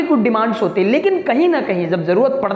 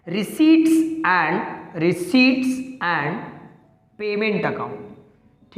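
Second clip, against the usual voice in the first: slow dictation; much slower than usual. Shown as a demonstration. Teacher naming the first final account, slow and deliberate. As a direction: dictate it slowly, word by word. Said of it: "पहला".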